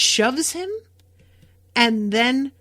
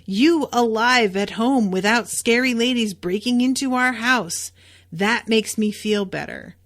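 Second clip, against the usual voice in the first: retold outburst; 3 semitones higher, 6 dB louder than usual. Scared husband snapping at his wife, louder. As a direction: let the fear burst out as anger. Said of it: "he kind of loses it".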